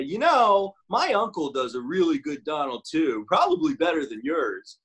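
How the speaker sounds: retold boastful friend. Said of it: "somebody would always say".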